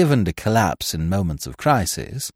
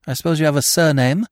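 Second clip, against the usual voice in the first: snapped; 6 semitones higher, 3 dB louder, faster than usual. A narrator's reading. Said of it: "snapped Eve".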